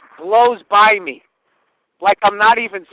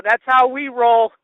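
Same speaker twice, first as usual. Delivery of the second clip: mock yell; 4 semitones higher, 4 dB louder, slower than usual. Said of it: "my friend yells out".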